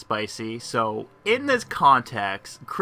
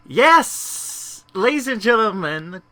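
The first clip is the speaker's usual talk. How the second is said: excited shout; 10 semitones higher, 7 dB louder, slower than usual. Real, not acted. Excited outburst while playing.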